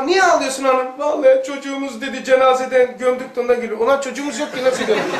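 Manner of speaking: mock domestic quarrel, voiced loud; acted argument. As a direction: call out like an exasperated husband. Acted quarrel between husband, wife.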